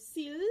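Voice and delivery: "Sill" said alone, loud and separate; syllable split off. Shown as a demonstration. Teacher breaking a word into parts for students, "Sill" loudly isolated. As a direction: say "Sill" as one detached chunk of a word. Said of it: "break it down into its constant parts".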